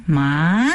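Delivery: ma rising upward; ma lifted at the end; second tone ma. Shown as a demonstration. Teacher repeating the second tone, rising. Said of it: "que es la segunda entonación".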